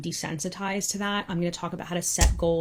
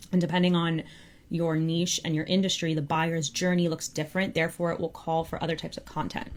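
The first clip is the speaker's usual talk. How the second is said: out of breath. Real, not acted. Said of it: "I'm so out of breath".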